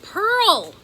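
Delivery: loud high yell of her name. A narrator's reading. Ben yelling for Pearl in alarm, loud and high. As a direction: Ben shouting Pearl across the water, loud. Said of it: "Ben yelled".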